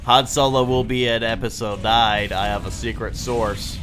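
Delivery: nasal know-it-all nerd voice; nerdy voice. Acted. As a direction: read it like a smug nerd. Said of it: "Sully Hog's nerdy voice".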